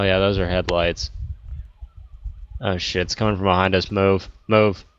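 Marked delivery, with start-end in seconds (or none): 3.9-4.9 urgent orders building in force; shouting orders over battle. Real, not acted. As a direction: hurry the squad along. Car approaching, urging team.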